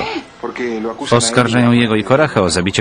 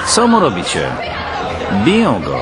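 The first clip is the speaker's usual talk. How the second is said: alarmed cry. Acted. Villager crying out at guards beating him. Protesting police beating priest.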